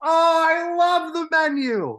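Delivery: high, slow gushing delight; drawn-out delighted oh. Real, not acted. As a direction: swoon over the movie. Excited agreement about movie.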